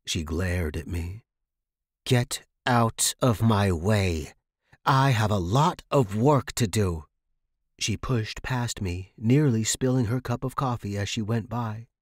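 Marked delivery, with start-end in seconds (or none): 2.1-7.1 cold brush-off. Acted. Landlady blocks the angry tenant.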